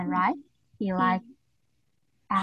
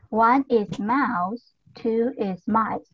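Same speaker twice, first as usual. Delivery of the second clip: very slow teaching model; slower than usual. Shown as a demonstration. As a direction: stretch out one is mouse, two is mice even slower. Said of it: "teacher repeats the model".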